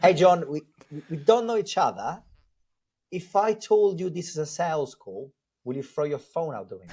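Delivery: lightly put-on sales opener voice; cold-call voice. Shown as a demonstration. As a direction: open the cold call in a lightly performed phone voice. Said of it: "let me do it properly with the right voice".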